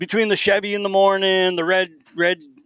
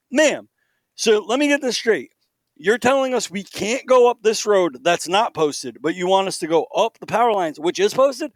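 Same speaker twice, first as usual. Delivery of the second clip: higher-pitched, pointed disbelief; retold exasperated challenge; 4 semitones higher than usual. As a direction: lay out the absurdity to her, deliberately.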